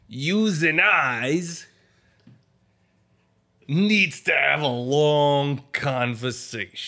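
very slow, drawn-out mock Italian gangster; Italian gangster accent. Gangster repeating his line to his host, very slowly. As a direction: stretch yous and I's like a threat. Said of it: "You sound like ... Italian gangster".

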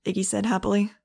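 steady audiobook narration voice; story narration. A narrator's reading. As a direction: read the chapter like an audiobook. Audiobook chapter read aloud.

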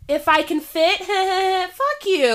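loud, high, laughing defiance; mock comeback. Imagined comeback to the thrift store woman, laughing and defiant. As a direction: fling it back with a laugh.

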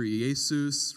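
Jesus said as Greek "ee-AY-soos"; Jesus pronounced Iesous, stress on the second syllable; Greek pronunciation of Jesus. Shown as a demonstration. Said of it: "in Greek culture".

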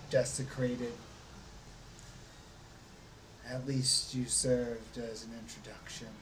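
a hint of a grieving vampire; lightly voiced brooding lord. DM voices Strahd mourning.

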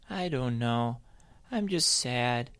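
gloomy bunny hesitating; hesitant Sally. A narrator's reading. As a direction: trail off shyly. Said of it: "with some hesitation".

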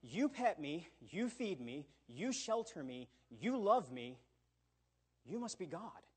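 lightly voiced adoring dog, earnest; a mild hint of a grateful dog's voice; devoted dog. A dog telling its master he must be God, mildly adoring. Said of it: "A dog will say".

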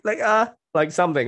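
pipsqueak sound. Shown as a demonstration. Coach showing a shy client a first tiny squeak. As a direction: squeak it out like a timid little mouse. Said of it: "a pipsqueak sound".

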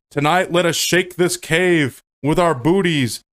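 mock-solemn rallying orator; lightly hammed-up proclamation; Morpheus. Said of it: "so after Morpheus's speech".

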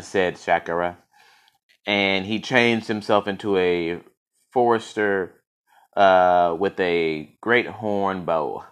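measured storybook reading; steady, even storyteller voice; story narration. A narrator's reading. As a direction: read it like a myth to listeners. Reads story aloud.

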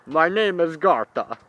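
lightly voiced high woman; a hint of the Gartha voice. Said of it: "that's actually how Gartha will sound".

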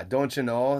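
light northern Michigan accent, long O; Upper Michigan accent. Shown as a demonstration. Demonstrating his people's native tongue, light Upper Michigan accent. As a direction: lean on a Minnesota-style long O. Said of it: "The, kind of the long O".

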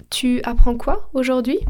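„Tu apprends” with both vowels kept apart; pełna wymowa. Shown as a demonstration. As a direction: keep the u in „Tu” before „apprends”. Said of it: "on devrait dire".

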